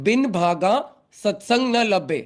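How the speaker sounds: "भागा" in Hindi accent, with breathed bh. Shown as a demonstration. Teacher dictating so non-Punjabi devotees understand, in Hindi accent. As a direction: keep to Hindi pronunciation, "भागा" with bh. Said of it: "Hindi accent में बोल रहा हूँ".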